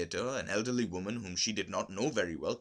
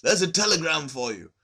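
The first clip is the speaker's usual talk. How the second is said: hollow voice; 7 semitones higher, 8 dB louder than usual. A narrator's reading. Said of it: "in a hollow voice".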